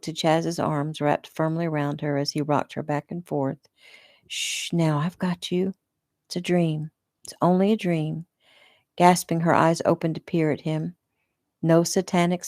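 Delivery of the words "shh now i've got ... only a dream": soothing. Acted. Chaz soothing Lisa after nightmare.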